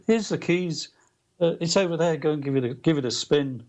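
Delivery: put-on light Liverpool accent, starting high; a mild Liverpool impersonation; a singer's Liverpool accent. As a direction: imitate Liverpudlian, easing down in pitch. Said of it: "in his Liverpool accent".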